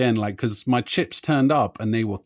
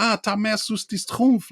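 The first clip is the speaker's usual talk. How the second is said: quoting La Haine; 9 semitones higher than usual. Retold or imitated. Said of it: "like that, which is a bit from La Haine".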